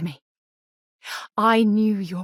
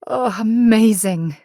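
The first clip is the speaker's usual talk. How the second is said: tearful joy; 4 dB louder than usual. Acted. Joy over the wedding ceremony.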